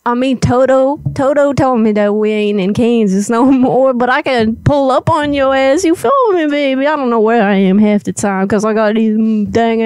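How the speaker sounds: badly faked country accent; horrible country accent. Prank caller invites Elizabeth over, in a horrible fake country accent. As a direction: lay on a phony country twang. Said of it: "trying to use a horrible country accent".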